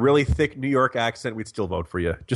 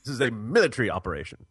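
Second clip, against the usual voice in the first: British-style MILITARY as MIL-i-tree, quicker; lightly British, squeezing military short; mock British; faster than usual. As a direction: imitate a British speaker saying military. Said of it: "if you ask the British".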